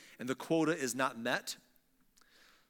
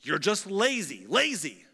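a louder scornful lazy, lazy; mock shout; 4 semitones higher, 5 dB louder than usual. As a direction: scold them as lazy. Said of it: "But Pharaoh shouted".

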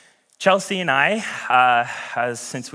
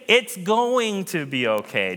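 reassuring; 4 semitones higher than usual. Retold or imitated. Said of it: "So say".

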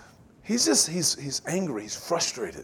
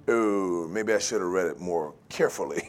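embarrassed mumble; 12 semitones lower, 12 dB quieter than usual. Retold or imitated. Imitating embarrassed reader.

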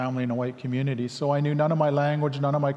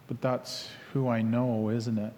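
thoughtful; 3 semitones lower, 6 dB quieter than usual. Retold or imitated. Pastor answers after pausing to think, thoughtful and subdued. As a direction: ponder it softly, retelling a second thought. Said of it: "he thought about it".

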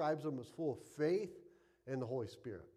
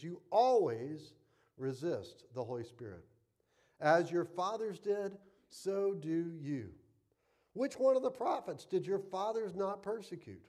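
stern rebuke. Acted. Stephen condemning the council, lightly voiced stern rebuke. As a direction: voice Stephen's charge against the council with mild heat.

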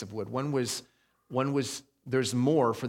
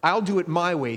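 higher, louder mock boast; loud proud defiance; 4 semitones higher, 7 dB louder than usual. Pastor mocking proud self-rule to the congregation, loud and defiant. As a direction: belt it like a stubborn rebel. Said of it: "a famous crooner's way".

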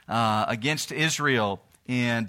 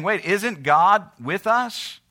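higher, slow, mock-puzzled question; puzzled disbelief; 5 semitones higher, 4 dB louder, slower than usual. Preacher voices Israel questioning God's absence, puzzled. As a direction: voice their disbelief, drawn out and raised.

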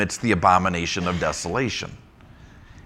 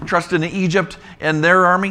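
higher, louder scoffing question; mocking question; 9 semitones higher, 5 dB louder than usual. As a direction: scoff at the idea. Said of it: "recycling what he's already said".

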